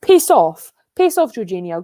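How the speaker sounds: real irritated outburst; angry. Real, not acted. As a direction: throw it out angrily. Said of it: "Charlotte getting so angry at Chelsea".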